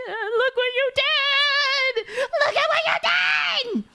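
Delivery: furious yell. Retold or imitated. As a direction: bellow it out in a rage. Mother yelling while beating him.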